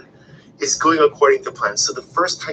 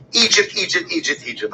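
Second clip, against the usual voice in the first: mock whine; 4 semitones higher than usual. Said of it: "they always go back".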